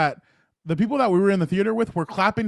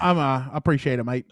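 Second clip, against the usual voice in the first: mock Australian accent; 4 semitones lower than usual. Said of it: "an Australian accent".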